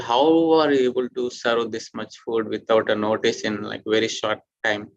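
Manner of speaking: a touch of surprise, pushed up early then settling; lightly acted surprised question; mildly surprised retold question. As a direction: ask it with understated astonishment, as if quoting someone. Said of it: "And he was surprised".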